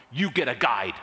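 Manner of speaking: retold no-nonsense command; emphatic order. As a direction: lay down the law, low and final. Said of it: "my desk clerk was so emphatic".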